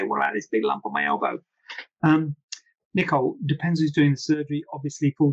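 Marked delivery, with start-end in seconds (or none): 0.0-1.4 much lower, put-on complaining patient; worried patient voice. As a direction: whine it like a confused patient. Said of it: "don't ask it afterwards and say".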